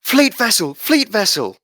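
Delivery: high, loud warning call; deckhand shout. Acted. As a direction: shout the alarm across the deck. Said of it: "another deckhand shouts".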